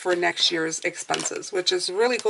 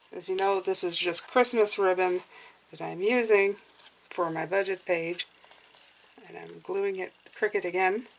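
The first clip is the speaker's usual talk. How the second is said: whistly s sounds through aligners; whistling s; 3 dB quieter than usual. Real, not acted. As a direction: let the s whistle through your teeth. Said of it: "Sorry about the whistling".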